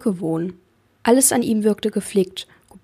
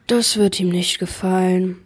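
sighing. Acted. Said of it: "seufzte Barnaby".

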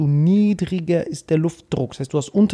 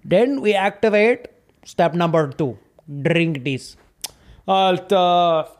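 put-on Indian accent. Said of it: "Einfach ein lispelnder Inder".

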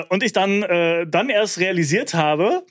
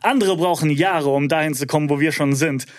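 arrogant. Acted. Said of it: "es wird nicht mehr arroganter".

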